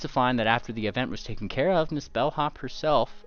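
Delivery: GM reading a newspaper report aloud; news article read. Acted. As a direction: announce it like a reporter.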